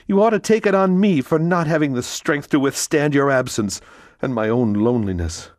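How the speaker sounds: Mercedes pleading. Acted. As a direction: plead as the distraught mother. Mercedes confesses her guilt.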